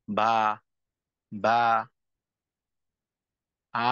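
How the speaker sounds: বা with the jaw dropped wide; wrong take, mouth too open. Shown as a demonstration. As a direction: gape on বা, letting the sound spread. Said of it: "অনেক বেশি হা করে উচ্চারণটা করি". (ভুল উচ্চারণ: বেশি হা করে বা)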